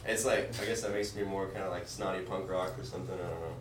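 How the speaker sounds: stuffy, nasal voice from allergies. Real, not acted. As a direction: talk through a blocked nose. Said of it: "excuse my nasally voice".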